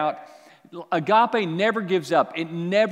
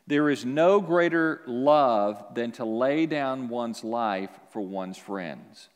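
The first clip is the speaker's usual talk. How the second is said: slow scripture reading; 4 semitones lower, slower than usual. Shown as a demonstration. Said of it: "John fifteen, verse thirteen".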